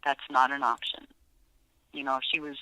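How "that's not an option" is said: low, firm and stern; firm harder voice. Shown as a demonstration. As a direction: set a boundary, firm. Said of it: "I made my voice a little harder".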